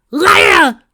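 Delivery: high, loud desperate call of a name; cry out. Acted. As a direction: cry her name in alarm. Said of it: "Tracy cried out".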